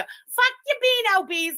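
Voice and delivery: high, slow exasperated curse; exasperated outburst. Real, not acted. Fed up with the clip while finding the tab, high exasperated curse. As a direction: spit it out, fed up.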